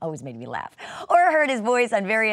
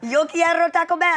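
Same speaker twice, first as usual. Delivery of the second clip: higher, louder mock Taco Bell Chihuahua; 7 semitones higher, 4 dB louder than usual. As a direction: do the little dog's catchphrase. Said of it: "You say it so well".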